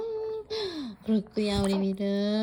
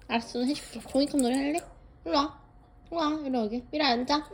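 talking to a dog; 4 semitones higher, much faster than usual. Real, not acted. Playing with the dog.

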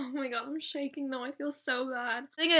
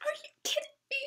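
retold shock; much faster than usual. Retold disbelief.

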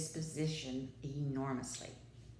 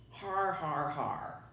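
mild wild laugh; much slower than usual. A narrator's reading. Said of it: "he laughed wildly".

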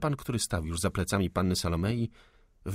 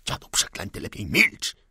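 rough yell, louder on the last words; 4 dB louder than usual. Acted. Starving insurgent yells at the old servant. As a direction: bark at the old man to shut up. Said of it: "wrzasnął zgłodniały powstaniec".

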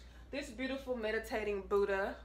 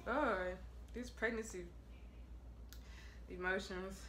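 sheepish; 7 dB quieter than usual. Real, not acted. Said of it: "Feel a little emotional".

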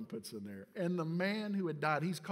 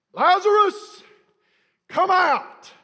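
high, full-force bellowed summons; commanding shout; 17 dB louder, much slower than usual. Acted. Jesus at the cave calling dead Lazarus, commanding shout. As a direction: call the dead out with huge force. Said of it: "and he shouts out".

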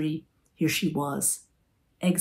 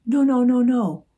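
high, louder protesting no's; flustered refusal; 8 semitones higher, 8 dB louder than usual. A narrator's reading. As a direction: wave off the offer in a panic. Lulu refusing dessert.

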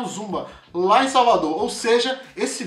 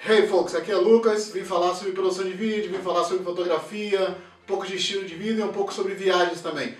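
som distante, gravado pela câmera; voz captada de longe, sem microfone; áudio da câmera. Shown as a demonstration. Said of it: "ouve com calma o áudio do primeiro vídeo". (som abafado de câmera)

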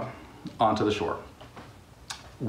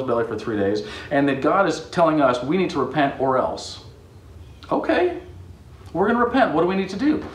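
eager townsfolk; 4 semitones higher than usual. Acted. Ninevites eager to repent.

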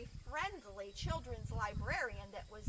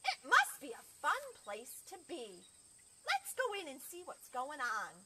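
high, loud wondering animal chatter; excited animals; 8 semitones higher, 5 dB louder than usual. Acted. Animals marvel to each other about the library, excited. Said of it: "looked at each other and said".

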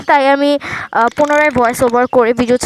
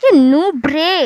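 mocking the bot; 2 semitones higher, 3 dB louder, much slower than usual. Real, not acted. Mocking the robot opponent.

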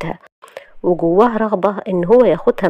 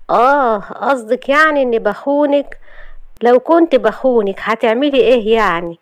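cool provocation; 5 semitones higher than usual. Acted. Husband answering wife's accusation, coolly provocative. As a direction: stretch it out, unbothered and challenging. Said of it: "وقال ببرود".

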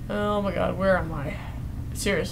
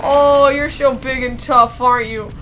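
mocking taunt. Real, not acted. Mocking stuck monster.

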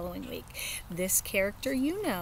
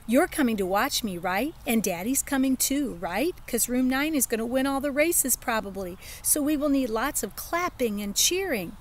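put-on child voice; 4 semitones higher than usual. Child asks parents to come.

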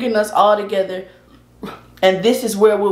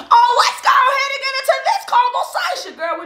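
laughing. Real, not acted. Playful high laughing aside.

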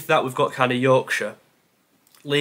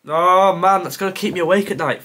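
louder, higher groan of frustration; exasperated groan; 4 semitones higher, 4 dB louder than usual. Real, not acted. Quiz player stumped by the missing team, exasperated. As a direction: groan "oh man" in real exasperation.

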